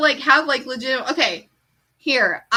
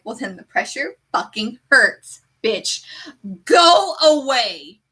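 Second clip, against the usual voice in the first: angry outburst; slower than usual. Retold or imitated. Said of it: "the only outburst".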